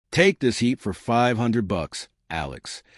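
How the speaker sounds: put-on light Texas accent, easy and unhurried; old vet with a slight Texas drawl. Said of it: "with that mischievous grin".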